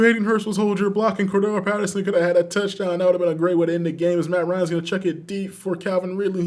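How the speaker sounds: brisk sportscaster calling the action; play-by-play commentary. Acted. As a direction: call the game live like a broadcaster. Live play-by-play of video game.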